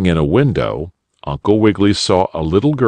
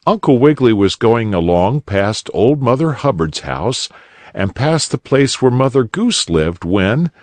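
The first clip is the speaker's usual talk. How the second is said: usual speaking voice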